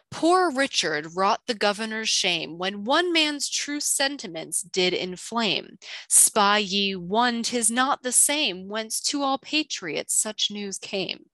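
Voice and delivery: slow, measured recital of a rhyme; formal clue reading. Acted. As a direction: read the old riddle out with deliberate, slow phrasing. Reads the clue aloud.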